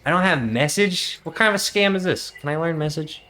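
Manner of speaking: indignant outburst. Real, not acted. The player protests to the DM that clerics lack message. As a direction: protest in disbelief. Player outraged at spell list.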